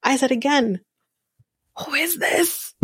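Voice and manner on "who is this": very high-pitched mock reaction; mock disbelief. Repeated mock reaction, escalating.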